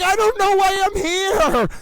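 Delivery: a hint of a confused woman on the stand; mock witness. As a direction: play the lost witness, bewildered.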